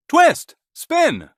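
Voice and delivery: loud high shout of names; calling out. A narrator's reading. Cockerel calling the mice home, loud shout. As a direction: call them from across the house. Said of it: "He called the mice again".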